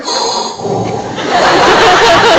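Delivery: big high fanboy gasp; starstruck gasp. Retold or imitated. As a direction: gasp in overexcited awe. Starstruck fan freak-out acted out.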